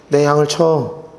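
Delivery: slow, low and tender words of Jesus; gentle low command. Retold or imitated. Jesus answers Peter again. (베드로에게 예수님이 낮고 부드럽게)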